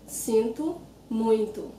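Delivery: slow sinto muito, both ending in oo; final O as U. Shown as a demonstration. Teacher makes it easier for learners, slow sinto muito with U endings. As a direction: say sinto muito slowly as SEEN-too MOOYN-too. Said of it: "when you pronounce it like that".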